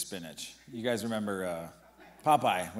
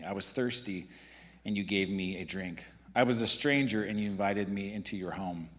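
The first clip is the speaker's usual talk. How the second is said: scripture reading. Acted.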